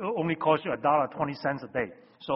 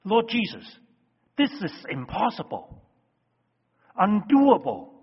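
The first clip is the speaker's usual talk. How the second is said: exasperated protest; 4 semitones higher, 4 dB louder than usual. Retold or imitated. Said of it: "The underlying message is".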